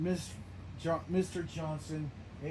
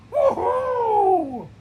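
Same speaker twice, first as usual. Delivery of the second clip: loud, high laughing cheer; excited whoop; 15 dB louder than usual. Acted. Attacker celebrates kicking Cookie Monster out, gleeful whoop. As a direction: whoop with glee.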